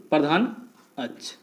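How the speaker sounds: वक्रता and त्रिज्या spoken apart, a long pause between; word by word for note-taking; slow dictation. Shown as a demonstration.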